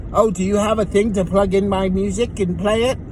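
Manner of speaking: lightly put-on British passenger; British accent. Passenger asking driver to plug in her music, British accent. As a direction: attempt a British accent, not very well. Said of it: "That's my best British voice".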